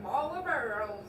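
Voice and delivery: Marlboros slurred like mol-uh-bros; marbles in mouth. Shown as a demonstration. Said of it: "You're saying, like".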